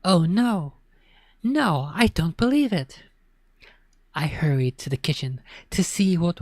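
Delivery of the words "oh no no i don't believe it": higher, shocked cry of disbelief. Acted. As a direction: cry out as bad news lands. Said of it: "I heard Mom cry out".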